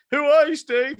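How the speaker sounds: high, loud fervent question; evangelical. Retold or imitated. Speaker fervently asking Steve who he is, loud and high. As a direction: preach the question with fervour. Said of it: "I became all evangelical".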